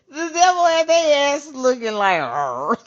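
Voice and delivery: high, loud, laughing delivery ending in a growled arr; mock growl at the end; laughing through it. Real, not acted. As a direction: tell it while cracking up. Mimics a face for the devil.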